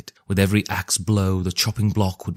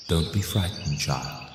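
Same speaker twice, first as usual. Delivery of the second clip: a hint of a spirit voice; 2 semitones lower, 5 dB quieter than usual. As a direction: soothe the child, lightly eerie. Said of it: "The voice seemed to come from everywhere".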